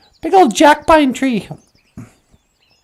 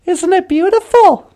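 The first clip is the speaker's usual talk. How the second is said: higher, louder show-off voice; boastful beaver; 5 semitones higher, 4 dB louder than usual. Acted. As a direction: brag about the tail to the crow. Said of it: "He's like".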